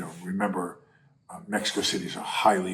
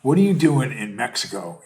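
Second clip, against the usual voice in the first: mock indignant; 3 semitones higher, 6 dB louder than usual. Voicing a Mexican local confronting the protester, indignant. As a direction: demand it like an offended local. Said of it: "He said".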